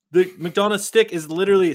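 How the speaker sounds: talking through a burp; words broken by a soda burp; burping after fizzy drink. Real, not acted. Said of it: "sorry, I'm burping".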